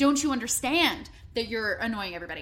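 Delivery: plain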